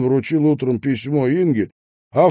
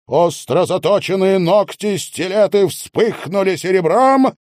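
usual speaking voice

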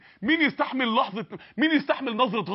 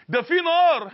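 higher, louder cry of warning; forceful warning; 5 semitones higher, 4 dB louder, slower than usual. Retold or imitated. Preacher warning a careless youth about hellfire, higher and louder. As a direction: hit the word نار like an alarm. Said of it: "تيجي تكلمه تقول له".

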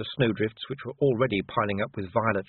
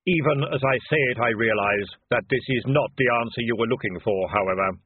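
hollow, louder solemn voice; Death; 4 dB louder than usual. Acted. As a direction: speak as calm, grave Death. Death speaks.

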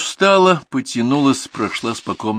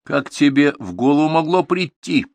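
higher and louder, slow stern question; 8 semitones higher, 6 dB louder than usual. A narrator's reading. He sternly confronts her about her joke, slow reproach. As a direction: demand it sternly, word by word. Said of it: "строго спросил он её".

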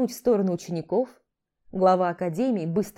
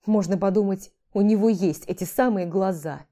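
snarky; 3 dB louder than usual. Acted. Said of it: "возможности для колкости".

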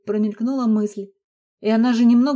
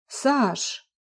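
worried husband; 3 semitones higher, 3 dB quieter than usual. A narrator's reading. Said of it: "обеспокоенно переспросил муж".

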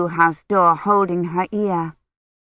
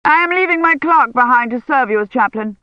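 a hint of a brusque churchman; curt envoy; 5 semitones higher, 4 dB louder than usual. A narrator's reading. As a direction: dismiss her firmly. Envoy's voice in story.

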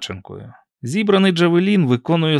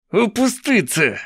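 high, drawn-out screech without much volume; 9 semitones higher, slower than usual. A narrator's reading. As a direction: screech the order, stretched out high. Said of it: "верещить Бен'ямін".

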